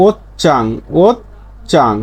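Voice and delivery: ওত চাং syllable by syllable with ch; changed consonant. Shown as a demonstration. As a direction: model ওত চাং, hard ch after a stop. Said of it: "তাহলে উচ্চারণ হবে কি?". (ওত চাং, থেমে চ দিয়ে উচ্চারণ)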